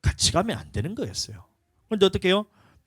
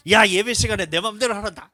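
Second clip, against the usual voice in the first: put-on higher, louder excited child; gleeful kid; 8 semitones higher, 6 dB louder than usual. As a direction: kid misreading the permission. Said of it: "그럼 어떻게 돼요".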